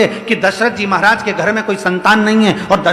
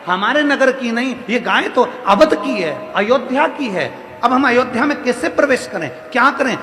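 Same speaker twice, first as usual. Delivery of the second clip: worried inner voice; 5 semitones higher than usual. Acted. Janak worried, hiding behind tree.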